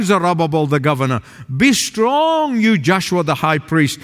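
preacher voicing the prophet's charge; prophet proclaiming. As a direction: declare it like God's messenger. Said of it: "he said".

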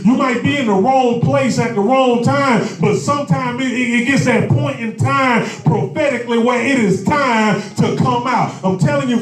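rising preacher's call, building; fervent preaching climax; preaching at full force. Acted. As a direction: lift the congregation, pressing harder each line.

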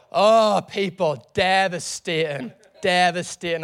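loud dismayed oh; dismayed cry. Retold or imitated. Telling the church the train wasn't coming, loud dismay. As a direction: groan it out in dismay. Devastated over the wrong stop.

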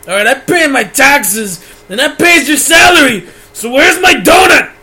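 put-on crotchety old-timer building to a shout; grumpy old man. Old man ranting about lemonade prices, then shouting. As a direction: rant like a cranky grandpa, yelling at the end.

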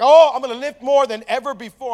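loud mock gym hype; imitated boast. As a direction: play the pumped-up, boastful friend. Imitating friend boasting before lifting.

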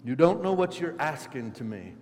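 loud, forceful rebuke; almost yelling. Acted. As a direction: fire it back as an imperative. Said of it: "He's almost yelling at him".

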